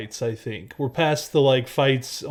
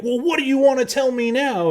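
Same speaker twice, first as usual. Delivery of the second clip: mock demanding; 10 semitones higher, 3 dB louder than usual. Exaggerated rude version of himself.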